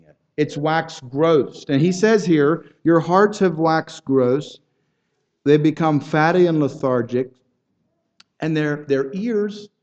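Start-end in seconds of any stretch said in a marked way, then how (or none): 2.8-7.3 scripture reading. Acted. Quoting Jesus's words slowly.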